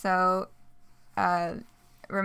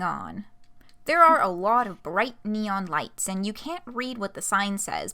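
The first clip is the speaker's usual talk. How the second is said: lively, animated story narration; expressive read-aloud with swooping intonation; game master scene setting; faster than usual. Acted. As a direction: set the scene for the player, leaning on key words.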